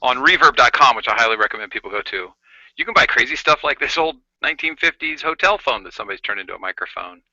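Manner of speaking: talking through a vintage hotel phone; gritty early microphone. Real, not acted. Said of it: "Oh, it sounds great".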